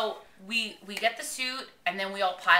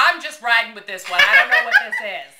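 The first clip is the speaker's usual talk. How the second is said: mock bewilderment; 2 semitones higher, 12 dB louder than usual. Friend admitting she's just along for the ride, mock bewilderment. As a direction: protest cluelessly, climbing in pitch. Acting out own bewilderment, joking.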